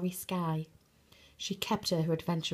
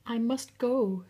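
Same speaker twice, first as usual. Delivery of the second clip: urgent cry; 5 semitones higher than usual. Acted. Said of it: "she cried".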